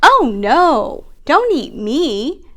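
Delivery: begging. Acted. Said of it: "begged the second goat".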